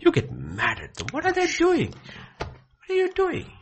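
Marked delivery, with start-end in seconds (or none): 1.1-3.5 indignant question. Real, not acted. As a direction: throw the question up in disbelief.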